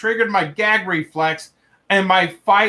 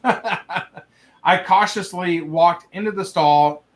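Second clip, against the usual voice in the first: laughing; slower than usual. Real, not acted. Reading through his own laughter.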